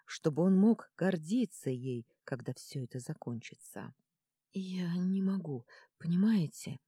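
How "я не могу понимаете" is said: mumbled through chattering teeth; shivering, teeth chattering. Acted. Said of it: "пробормотала, стуча зубами".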